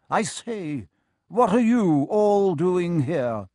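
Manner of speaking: indignant ghost. A narrator's reading. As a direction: argue pompously then turn surprised. Second ghost argues with friar.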